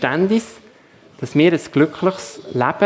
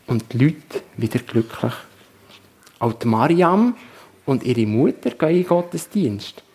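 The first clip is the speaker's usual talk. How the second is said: storyteller reading to the congregation; story narration. A narrator's reading. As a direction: tell the story steadily, drawing listeners in. Story told in a sermon. (Geschichte vorlesen)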